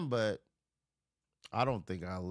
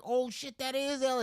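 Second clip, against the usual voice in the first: much higher, louder star-struck cry; excited high shout; 3 dB louder than usual. Retold or imitated. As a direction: shriek like seeing a celebrity. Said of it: "it was like".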